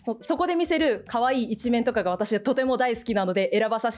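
Hetalia Germany. Pretend. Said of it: "ドイツというキャラでやらさせていただきます".

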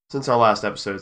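hiccup breaks the line; talking through hiccups. Real, not acted. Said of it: "sorry, I have the hiccups".

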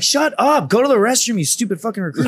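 high, sharp mock drill instructor bark. Drill instructor barking at a recruit, mock bark.

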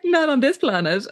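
high, slow, emphatic put-down; mock scornful rejection. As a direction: retell her dismissing him outright. Retold scornful rejection of Winston.

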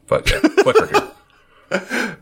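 clicker stretched high and slow with a laugh; drawn-out Boston clicker. Shown as a demonstration. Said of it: "with my Boston accent".

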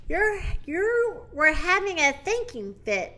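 understated gentle explanation. Acted. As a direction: reassure lightly, pitch lifted. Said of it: "Minnie said gently".

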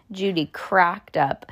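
ordinary delivery

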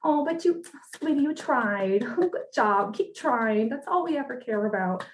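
high-pitched, indulgent coddling; pitying, playful pat on the head; mock consoling. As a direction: humor them like a small child who failed. Pretends to console the coach, like a child.

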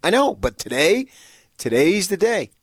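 loud and high, building indignation; worked-up rant. Real, not acted. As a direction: raise your voice to vent. Insisting it's complain day.

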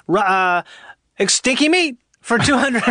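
blurting it out like a game show answer; shouting out answers. Retold or imitated. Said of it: "shouting them out in a weird way".

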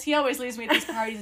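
quick, hammed-up complaint; put-on woe. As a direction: act the neglected girlfriend. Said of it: "and you be like".

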